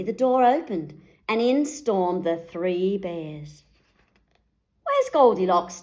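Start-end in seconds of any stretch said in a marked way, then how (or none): 4.8-5.8 loud demanding bark; Daddy Bear confronting the wolf. A narrator's reading. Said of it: "demanded Daddy Bear".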